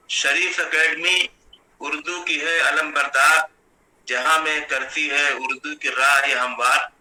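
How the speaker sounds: measured mushaira recital with drawn-out line endings; Urdu poetry recitation. Acted. Poet reciting verse in praise of an Urdu academy, declaimed poetry recitation. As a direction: recite each half-line in a steady cadence.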